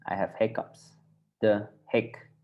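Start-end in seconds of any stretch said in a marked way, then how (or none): 1.4-2.3 hik said with a short vowel. Shown as a demonstration. Teacher contrasting hik with ziek, hik kept short. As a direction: keep the "i" in hik brief.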